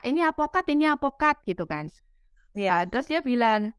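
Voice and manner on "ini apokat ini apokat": "apokat" said the Indonesian way, with a p and no final o; "ini apokat" with a light rise, local word for avocado; mock dad saying "apokat" instead of "Avocado"; father's apokat. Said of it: "bapaknya bilang".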